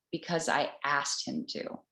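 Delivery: lightly voiced gentle goddess reply; feminine grace. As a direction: let her words land softly and kindly. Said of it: "she said with this feminine grace".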